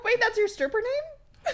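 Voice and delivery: half-laughing wait what; giggling disbelief; amused disbelief. Real, not acted.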